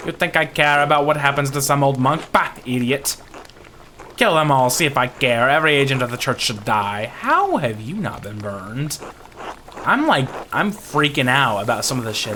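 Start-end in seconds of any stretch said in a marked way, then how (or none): 0.1-9.0 lightly voiced irate villager, louder at the peak; hint of angry Ottilia. Ottilia to the visitor about the abbey, angry. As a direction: punch out the contempt, lightly acted.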